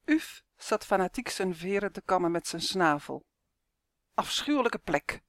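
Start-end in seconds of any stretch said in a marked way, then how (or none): 4.1-5.2 higher, buzzing little creature voice; buzzing elf voice. Acted. Uf complains to Justin, buzzing voice. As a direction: hum it like a tiny fed-up insect. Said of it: "zoemde hij".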